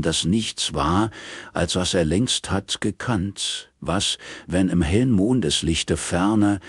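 slow, solemn verse recital; poem reading. A narrator's reading. Narrator reads a Spenser epigraph slowly and solemnly. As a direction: read the old verse with gravity.

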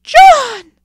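high, piercing cry of the name; shrieked, very loud and high; scream. A narrator's reading. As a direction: scream out in shock at seeing your son. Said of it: "screamed Mother".

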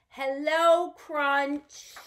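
medium-volume, drawn-out hello; bold yet gentle. Pretend. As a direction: greet clearly without shouting. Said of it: "nice medium sounding voice".

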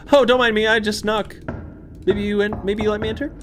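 high, sweet, overly polite; mock politeness. Player sarcastically asking a locked door, mock polite. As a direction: ask the door nicely, tongue in cheek.

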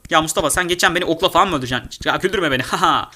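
ordinary delivery

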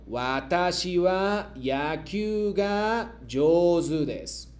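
slow, deliberate model sentence; slow model reading. Shown as a demonstration. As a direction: read it slowly for the class to repeat. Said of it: "yo leo y luego ustedes me repiten".

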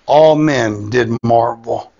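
"all" held long, phrase slowed right down; slowly weight each word, stretching "all"; emphatic repeat. Real, not acted. Preacher says the verse over for emphasis, slow stress on "all". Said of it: "I'll say that again".

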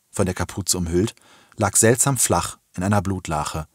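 ordinary delivery, nothing marked

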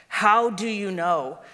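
a hint of a worried boy; young Shasta. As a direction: ask it like a puzzled boy. Shasta asks.

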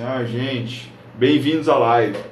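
sulky, listless welcome with a sour face; grumpy bored greeting. Shown as a demonstration. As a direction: greet them as if you didn't care. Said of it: "chegar aqui de cara feia e fazer assim". (saudação desanimada de cara feia)

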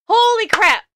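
high, loud exclamation; amazed outcry. Real, not acted. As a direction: cry it out, blown away. Stunned after the trailer.

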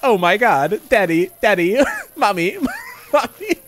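lightly imitated text-to-speech child, laughing; mock daddy mommy call, laughing at the end; mock robot child. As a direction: parrot the robotic kid's cries. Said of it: "Hearing them like".

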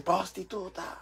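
high mock heckling; imitated yell. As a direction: imitate someone calling out to one woman. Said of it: "Y yo, otra vez". (grito callejero imitado, agudo)

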